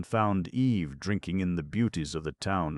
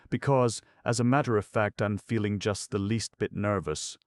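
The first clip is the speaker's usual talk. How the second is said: high, louder woman's character voice; slightly nervous Eve; 6 semitones higher, 4 dB louder than usual. Acted. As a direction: confess a touch of nerves in a high voice.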